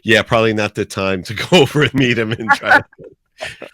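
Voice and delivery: quoting Brian, breaking into a laugh mid-line. Retold or imitated. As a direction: laugh through it, in a put-on voice. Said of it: "Brian's sitting there and goes".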